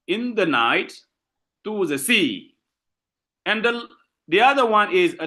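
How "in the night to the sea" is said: light openings, long "night" and "sea"; anapestic stress. Shown as a demonstration. Teacher repeating the example for class, stress on "night" and "sea". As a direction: insist on "night" and "sea" only. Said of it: "you insist on sea".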